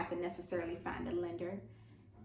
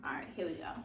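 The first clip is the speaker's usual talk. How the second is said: whisper; 6 semitones lower, 7 dB quieter, much faster than usual. Real, not acted. Whispering to herself before retake.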